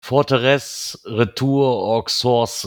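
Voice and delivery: stumbling French place names; German-accented French read haltingly; broken French. Real, not acted. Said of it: "entschuldigt mein Französisch, ich kann's nicht aussprechen".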